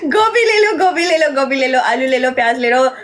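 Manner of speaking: laughing street seller calling; vegetable vendor call. Pretend. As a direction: hawk vegetables through laughter. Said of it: "okay, सब्जी बेच दो".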